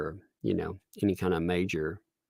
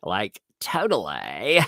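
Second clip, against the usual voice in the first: slow, drawn-out hip-teen imitation; mock teen affectation; slower than usual. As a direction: stretch the ending, mocking her put-on talk. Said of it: "She wants to talk like she's, um, hip with the, the teens".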